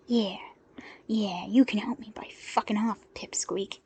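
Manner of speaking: breathy, contemptuous thug snarl; rough, scornful growl. Acted. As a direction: sneer down at the little man. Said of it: "he snarled".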